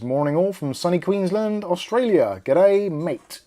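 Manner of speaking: playful hint of an Australian accent; stereotyped Australian accent. Host reading an Australian viewer's greeting, stereotyped Australian accent. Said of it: "Is that stereotyping?".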